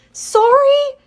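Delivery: high, loud, flustered apology; a young driver losing her nerve; nervous girl. A narrator's reading. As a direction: blurt it out, rattled.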